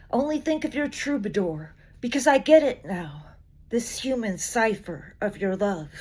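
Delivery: tender, measured recital; poetry reading. Acted. Reading the English translation of Rain, tender recital.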